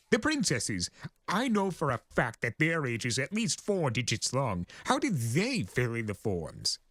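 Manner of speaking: high, theatrical chaos spirit boasting of his age; grandiose Discord voice. Acted. Discord boasting to the Pegasus, high and grandiose.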